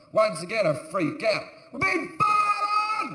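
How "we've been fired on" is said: panicked shout. Retold or imitated. Panicked shout in retold story.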